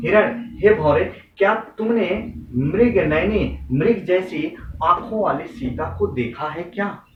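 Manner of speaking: lightly acted, slow searching question; Ram's appeal. Ram asking forest creatures about Sita, slow lightly acted appeal. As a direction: call out, then ask slowly, drawing words out. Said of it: "जाते हैं पक्षियों से पूछते हैं".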